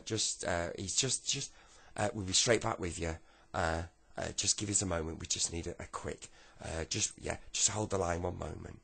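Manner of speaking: loud, flustered official on the phone; flustered stalling. Acted. Caller put on hold by the official, flustered stalling.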